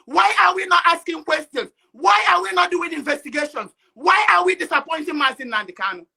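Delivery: real anger building into protest; angry outburst. Real, not acted. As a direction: let the frustration push every question out. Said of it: "you sound very, very angry".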